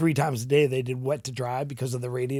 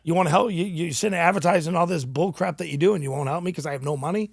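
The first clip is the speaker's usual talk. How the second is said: higher-pitched indignant rant; retold anger; 3 semitones higher than usual. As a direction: lay into him, worked up.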